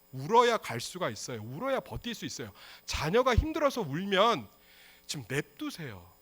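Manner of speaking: ordinary delivery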